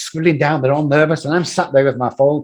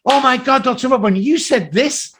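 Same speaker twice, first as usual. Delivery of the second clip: gushing fan; 9 semitones higher than usual. Retold or imitated. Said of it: "someone would come up and go".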